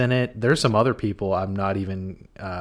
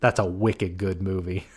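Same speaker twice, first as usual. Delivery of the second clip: put-on Boston accent; 2 semitones lower than usual. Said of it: "That's not even my best version".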